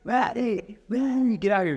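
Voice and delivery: high-pitched mock yell for help; retold yell. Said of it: "And I'm yelling".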